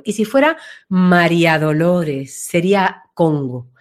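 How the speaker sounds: widening low voice. Shown as a demonstration. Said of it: "se ensancha".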